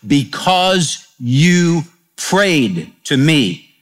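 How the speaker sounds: slow, measured voice of God; slow reverent proclamation; God's solemn word. Acted. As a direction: deliver it as a divine decree, very slow. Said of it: "the Lord said to Isaiah".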